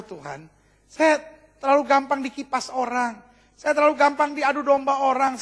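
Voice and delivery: confession building from subdued to high and insistent; demonstrated confession prayer. Shown as a demonstration. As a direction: model a prayer owning up to faults, building steadily. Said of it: "naikkan doa pengakuan dosa".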